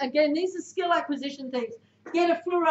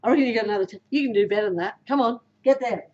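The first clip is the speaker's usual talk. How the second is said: lower, encouraging push; 5 semitones lower, faster than usual. Shown as a demonstration. Coach demos lifting a teammate, lower voice. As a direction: back them up, lower. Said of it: "how I say it".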